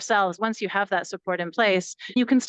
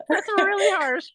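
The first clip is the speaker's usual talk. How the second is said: high whispered disbelief; hushed, higher whisper of dismay; shocked whisper; 10 semitones higher, 3 dB louder, slower than usual. Retold or imitated. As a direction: whisper it, appalled.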